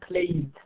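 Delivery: "played" ending in a voiced D; final D sound. Shown as a demonstration.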